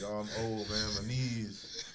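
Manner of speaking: put-on frail old man voice. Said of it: "I act like I'm frail".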